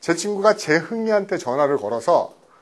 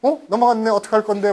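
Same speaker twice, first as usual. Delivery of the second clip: playful teasing, a little higher; teasing provocation; 4 semitones higher than usual. Retold or imitated. Naughty deskmate taunting the girl beside him, teasing. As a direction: needle her cheekily. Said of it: "자꾸 도발을 하죠".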